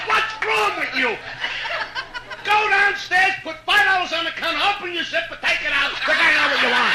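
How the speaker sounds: bossy wife ordering him about; mock scolding wife. Wife scolding husband in joke.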